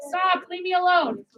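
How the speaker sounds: nervous, hesitant "Stop, leave me alone"; timid. Shown as a demonstration. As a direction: say it unsure and a bit slow. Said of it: "I might go like this".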